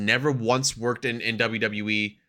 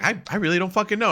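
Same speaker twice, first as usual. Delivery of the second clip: retold exasperation; 10 semitones higher, faster than usual. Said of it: "I'm like".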